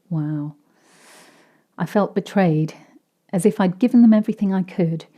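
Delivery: ordinary delivery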